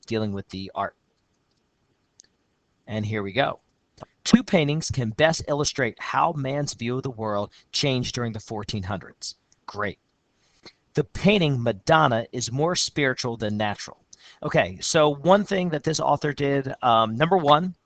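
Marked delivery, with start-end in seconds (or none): 4.2-9.3 steady reading of a student's essay; essay read aloud. Shown as a demonstration. 10.9-14.0 steady reading of a student's essay; essay read aloud. Shown as a demonstration.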